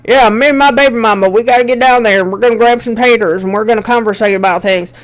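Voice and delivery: fast, lightly put-on redneck accent; Larry the Cable Guy redneck accent. Teacher imitating Larry the Cable Guy's redneck accent, fast. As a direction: rattle it off in a hammed-up redneck accent. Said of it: "He puts on this accent".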